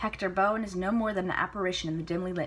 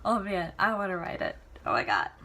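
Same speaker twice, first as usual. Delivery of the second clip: real excitement. Real, not acted.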